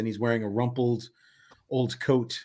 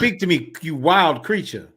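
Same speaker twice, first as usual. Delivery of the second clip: slow, higher and louder, grand delivery; theatrical carnival man; 6 semitones higher, 6 dB louder than usual. Acted. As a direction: question a strange newcomer with slow ceremony. Voices a game character.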